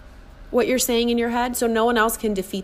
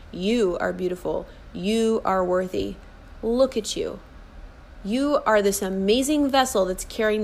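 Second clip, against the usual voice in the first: tender affirmation. Acted. Coach speaking to her inner child, tenderly affirming. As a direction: gently build up a little child, word by word. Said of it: "get in the face of that little child and you say".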